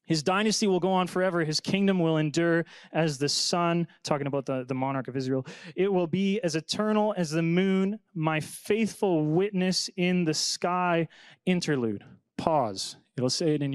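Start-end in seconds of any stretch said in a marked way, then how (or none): 0.0-3.9 earnest Bible reading, a touch lifted; scripture reading. Acted. Pastor reads Ethan's psalm to the class, earnestly. 5.8-11.1 earnest Bible reading, a touch lifted; scripture reading. Acted. Pastor reads Ethan's psalm to the class, earnestly.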